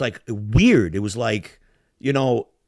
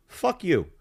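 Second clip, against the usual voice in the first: retold insult; 7 semitones higher than usual. Retold insult between two men.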